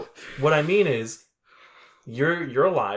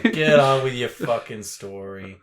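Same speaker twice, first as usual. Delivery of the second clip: put-on East Coast accent, slightly lower; 3 semitones lower than usual. Hurrying a friend's story along in East Coast accent. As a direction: play an East Coast local. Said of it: "I was doing an East Coast accent".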